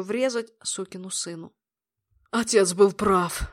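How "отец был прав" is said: cold metallic tone, slow. Acted. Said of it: "произнёс металлическим голосом".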